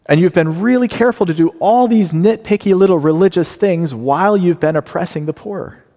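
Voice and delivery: mock the nitpicky religiosity; indignant rebuke. Preacher voicing God indicting his chosen people. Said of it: "Here's what he says".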